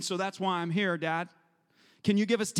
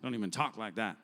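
shocked listener; 12 semitones lower, 7 dB quieter than usual. Retold or imitated.

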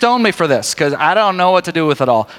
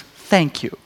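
mock sweet thanks; 3 semitones lower, 4 dB quieter than usual. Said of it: "he goes".

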